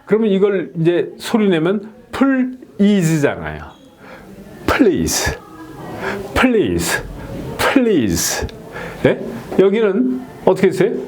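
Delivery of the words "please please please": "please" as one beat, pl sliding into ease; correct cluster pronunciation. Shown as a demonstration. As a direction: demonstrate "please" with a tight pl cluster. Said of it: "사운드 셀러블로 나눈 건 이렇게 나눈 거예요".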